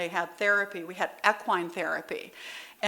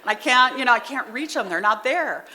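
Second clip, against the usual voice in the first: exasperated teachers; 3 semitones higher, 6 dB louder than usual. Retold or imitated. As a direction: mimic worn-out teachers pleading for help. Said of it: "And the teachers all said".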